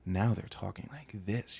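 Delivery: slow, lightly imitated come-on; mock seductive voice. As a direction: stretch it out as if trying to turn someone on. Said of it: "they change up their voice".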